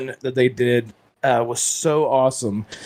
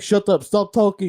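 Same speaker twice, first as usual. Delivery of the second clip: higher-pitched mock guard in Russian accent; 5 semitones higher than usual. Guard silencing a prisoner, mock Russian accent. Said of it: "these Russian players were like".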